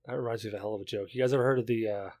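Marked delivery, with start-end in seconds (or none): 0.1-1.1 quick, soft, slurred mumble. Real, not acted. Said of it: "you said it weird".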